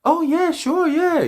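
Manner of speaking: put-on very high eager girly yeah; mocking women. Women handing out their number, high mocking squeal. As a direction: squeal a keen yes. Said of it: "bitches is like".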